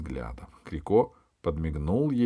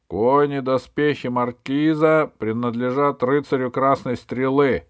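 loud, raised royal proclamation; announcing; 6 semitones higher, 7 dB louder than usual. A narrator's reading. King rules on the spoils, announcing loudly. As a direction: declare the ruling to everyone. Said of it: "объявил король".

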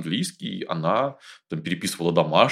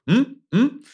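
high, loud pointing hums; questioning grunts; 6 dB louder than usual. Retold or imitated. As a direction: mime ordering with a grunt. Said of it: "все такие пальцы тыкали".

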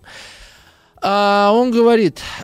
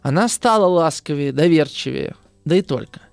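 steady literary reading of a novel passage; measured classroom reading; reading aloud; 2 semitones lower than usual. A narrator's reading. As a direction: read the passage to the class, evenly. Teacher reads novel passage aloud.

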